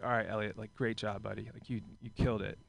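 understated gentle coach praise; soft praise. Retold or imitated. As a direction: quietly reassure a little kid. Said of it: "and I'm like".

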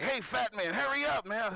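put-on sing-song it like a bratty kid; lightly voiced bratty kid; taunting kid. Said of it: "he's taunting me".

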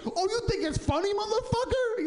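high, put-on tough guy voice; mock tough guy. The guy in the Mission confronting him, mock menacing. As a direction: sneer it like a menacing stranger. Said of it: "And he was like".

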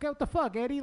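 high, startled outburst; mock shock at catching him; shocked high cry. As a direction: yelp it like you just walked in on him. Kid catches uncle.

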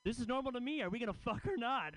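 high, breezy unbothered tone; mock casual guy. Comic voicing the victim in Dahmer's apartment, breezy. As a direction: shrug it off like nothing's wrong. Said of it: "the guy's like".

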